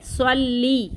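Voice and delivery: स्वल्ली ending in a clear ii; long i ending. Shown as a demonstration. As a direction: finish स्वल्ली on ii, not e. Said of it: "स्वल्ले नहीं".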